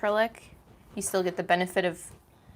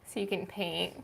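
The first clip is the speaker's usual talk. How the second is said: soft unvoiced whisper; 8 dB quieter than usual. Real, not acted. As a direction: whisper it quietly. Quiet aside during live stream.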